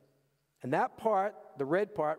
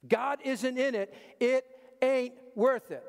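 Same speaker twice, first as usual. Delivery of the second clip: "If God isn't in it, it ain't worth it" higher and louder, "worth" hit hard; emphatic refrain; 7 semitones higher, 4 dB louder than usual. Shown as a demonstration. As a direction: preach it with punch on "worth". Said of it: "I'm doing it for emphasis".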